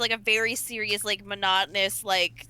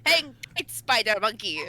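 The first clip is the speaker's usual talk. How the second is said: cartoony Dracula accent. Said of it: "you're doing the cartoony one".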